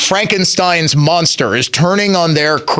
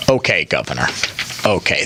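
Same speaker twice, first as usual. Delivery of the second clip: sarcastic okay; 12 semitones lower, 5 dB quieter, faster than usual. Real, not acted. Radio host mocking the governor's reply, sarcastic low okay. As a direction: let the governor's line drop with a dry scoff.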